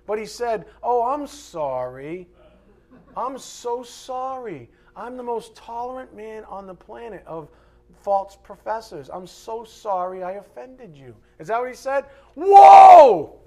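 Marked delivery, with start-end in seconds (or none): 0.8-11.1 sarcastic apology. Retold or imitated. Mocking Jesus's fake apology. 12.3-13.4 very loud, high exclaimed whoa; huge shocked whoa. Shown as a demonstration. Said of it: "Not like, "Whoa, Nelly the horse".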